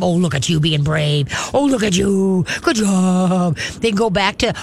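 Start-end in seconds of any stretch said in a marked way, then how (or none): 0.0-3.6 drawn-out praise to a pet; cooing praise. Shown as a demonstration. Trainer showing how to praise a brave dog, cooing. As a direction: coo proudly over a brave little dog.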